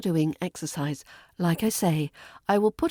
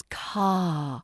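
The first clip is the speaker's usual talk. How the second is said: unvoiced whispered explanation. Shown as a demonstration. Teacher whispers that the R is silent. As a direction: whisper it like a secret. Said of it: "The R is silent".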